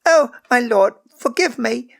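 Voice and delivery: high, loud plea for mercy; a terrified child begging forgiveness; frightened cry. A narrator's reading. Servant girl begs the lord's pardon, high and frightened. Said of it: "Megan cried".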